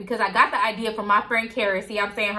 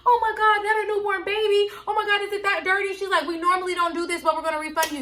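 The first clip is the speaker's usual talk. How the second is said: much higher, gushing sympathetic rep voice; customer service lady; 9 semitones higher than usual. Retold or imitated. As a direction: mimic the shocked phone agent, pitched way up. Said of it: "The lady was like".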